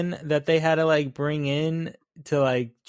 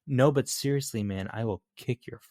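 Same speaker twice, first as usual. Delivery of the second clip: sudden seriousness; 4 semitones lower than usual. Retold or imitated. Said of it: "on a flip of a, of a coin".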